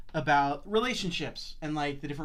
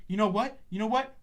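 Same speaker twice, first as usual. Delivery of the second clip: loud hammed-up outburst, higher pitch; mock angry yell; 8 semitones higher, 8 dB louder than usual. Friend retelling cuffed buddy's outburst, loud mock yell. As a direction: yell it like you're dragging him to class.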